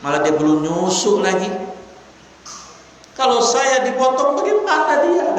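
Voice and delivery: put-on a mother deer begging for her young; tearful pleading deer. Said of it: "Sampai nangis dia".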